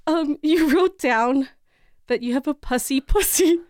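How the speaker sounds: straight-faced doctor. Retold or imitated. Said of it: "with a straight face".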